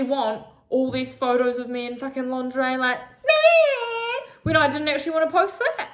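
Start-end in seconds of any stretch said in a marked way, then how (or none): 3.0-4.3 a high, loud dismissive meh; sudden high mocking meh. Mocking shrug at lingerie photos. 4.4-5.9 louder, fast words through tears; tearful, rushed and a bit louder; crying. Real, not acted. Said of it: "I apologize for the crying".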